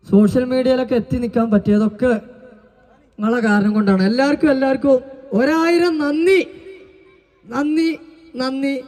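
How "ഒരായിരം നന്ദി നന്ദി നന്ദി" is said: mock echo. Performer thanks the crowd, mock echo fading out. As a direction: repeat it like a dying echo.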